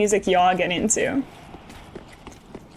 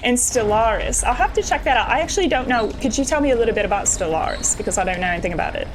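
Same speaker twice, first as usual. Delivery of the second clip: lightly hammy fake British accent; bad British accent; faster than usual. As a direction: ask it in a badly faked British accent. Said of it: "a really bad British accent that I'm doing".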